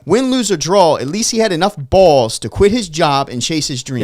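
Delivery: pushing back hard at online critics; fired-up rant. Real, not acted. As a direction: passionate indignation. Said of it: "'cause it pissed me off".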